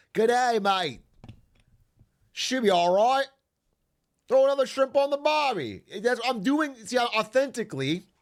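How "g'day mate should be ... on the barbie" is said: put-on Australian accent. A streamer greets viewers, reaching out to Australians in a put-on Australian accent. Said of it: "authentically reaching out the olive branch to Australians".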